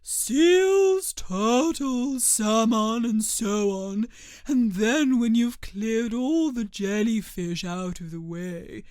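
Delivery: loud, eager storybook turtle; emphatic character reading; lightly voiced Mock Turtle. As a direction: list it off loudly, settling down at the end.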